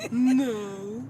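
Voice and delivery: numb from the dentist. Real, not acted. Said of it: "you have teeth and a tongue in your mouth".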